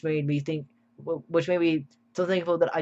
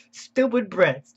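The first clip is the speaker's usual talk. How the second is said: slow, higher and drawn-out Stupid Brits; mock comment reading; 4 semitones higher, 4 dB louder, much slower than usual. Reading out a viewer's comment about Brits, slow and mocking. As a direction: stretch out Stupid Brits, savouring a silly comment. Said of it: "the funniest comment I've seen here".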